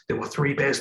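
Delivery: storyteller voice. Shown as a demonstration. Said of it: "read a bedtime story".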